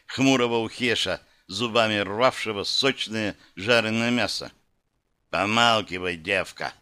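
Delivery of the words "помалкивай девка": grumbled while chewing; mouth full. Acted. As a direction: mumble it through a mouthful. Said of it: "усердно жуя, пробурчал тот".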